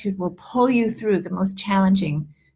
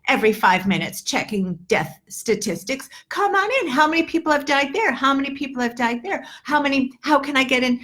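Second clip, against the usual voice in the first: voicing the soul inviting bad news in, high and eager; mock welcoming host; 5 semitones higher than usual. Teacher mocking a news addict's open-door soul, high eager. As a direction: play an over-eager doorman calling bad news inside. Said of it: "you say".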